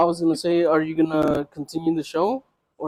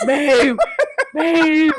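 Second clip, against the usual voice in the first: retold scream; 10 semitones higher than usual. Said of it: "she's just standing there screaming".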